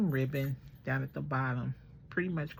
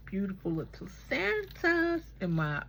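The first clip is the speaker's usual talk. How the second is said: elf voice; 6 semitones higher than usual. Acted. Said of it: "I'm saying that in my elf voice".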